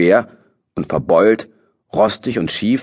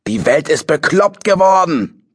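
yelling into the wind; 9 semitones higher than usual. A narrator's reading. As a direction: rage at the world, full voice. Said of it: "brüllte er in den Wind".

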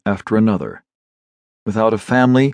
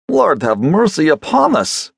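a touch of an amazed cry, higher; understated shocked exclamation; 7 semitones higher than usual. Acted. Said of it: "cried Avdeyev in amazement".

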